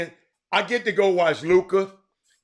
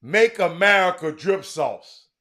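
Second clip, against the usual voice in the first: slow, deliberate slogan reading; slower than usual. Retold or imitated. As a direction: read the hat slogan slowly. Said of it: "a hat on that said".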